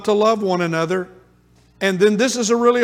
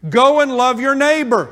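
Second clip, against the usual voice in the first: loud preaching call; 4 semitones higher, 5 dB louder than usual. Acted.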